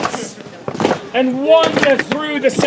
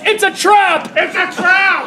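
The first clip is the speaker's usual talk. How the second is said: yell; 5 semitones higher than usual. Acted.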